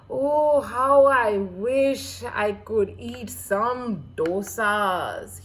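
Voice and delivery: loud, slow dreamy longing; longing sigh. Acted. The poor husband longing aloud for dosas, loud and slow. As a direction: draw out the wish like a hungry dreamer. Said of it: "he kept thinking".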